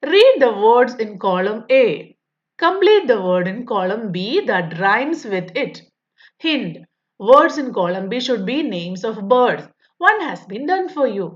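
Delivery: slow, careful reading of the question; textbook read-aloud. Acted. Teacher reading the workbook question to pupils, slow and deliberate. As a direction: read each word out slowly for young pupils.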